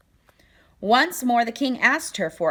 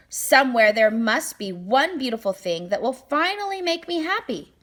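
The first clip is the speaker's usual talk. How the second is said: king's voice; 5 semitones higher, 4 dB louder than usual. Acted. Greedy king voiced in story.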